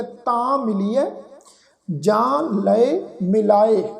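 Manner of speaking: slow recitation, nasal vowel in ਤਾਂ and ਜਾਂ; nasalised vowels. Shown as a demonstration. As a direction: draw it out, sounding ਤਾਂ and ਜਾਂ through the nose. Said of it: "ਬਿੰਦੀ ਸਹਿਤ ਨਾਸਕੀ ਉਚਾਰਨ".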